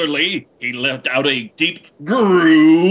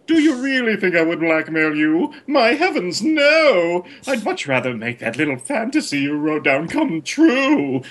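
seductive murmur; 5 semitones higher than usual. Acted. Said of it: "he murmured seductively".

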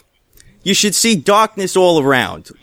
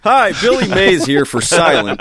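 Billy Mays pitch. Pretend. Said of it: "This Boston pitchman voice".

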